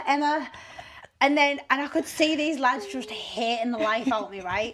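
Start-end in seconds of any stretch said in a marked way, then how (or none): 0.1-0.5 exasperated. Retold or imitated.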